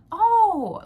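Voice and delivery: a breathless, high, startled Oh; shocked gasp. Retold or imitated. After a stranger calls her a porn star lookalike, a high gasped Oh. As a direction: gasp it out in disbelief.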